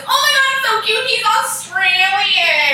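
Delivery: high, excited squeal of a friend; mock swooning excitement; imitated gushing. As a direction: gush loudly, drawing out the last word. Retelling friend gushing over accent.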